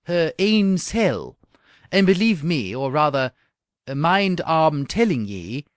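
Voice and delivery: slow, loud joyful Scots; Scottish accent. Acted. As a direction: savour the Scots words joyfully. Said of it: "went on the honest man joyfully".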